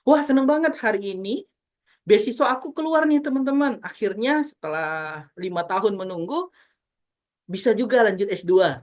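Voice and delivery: bright, rising, excited delivery; happy intonation. Shown as a demonstration. Teacher demonstrating happy intonation to online class. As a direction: sound truly thrilled about the scholarship. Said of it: "Contoh, misalnya".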